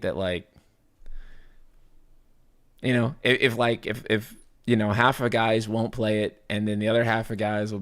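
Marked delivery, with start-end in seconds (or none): 2.8-4.9 tripping over words; stuttering, repeating "if". Real, not acted. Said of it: "stuttering all over my words".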